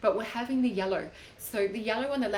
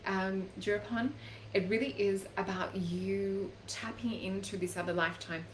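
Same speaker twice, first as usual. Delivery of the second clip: usual speaking voice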